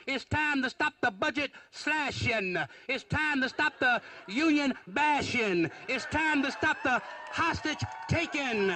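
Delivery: slashing, bashing and taking said with the g dropped, slashin, bashin, takin; mock folksy dropped g on slashing, bashing, taking; dropped g's. Shown as a demonstration. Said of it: "dropping his G's at the end of a sentence".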